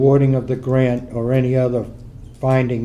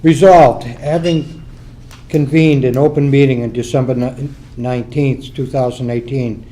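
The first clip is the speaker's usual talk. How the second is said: raised voice so the room hears; speaking up; 4 dB louder than usual. Real, not acted. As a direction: project it louder for the back row. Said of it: "Speak up, please".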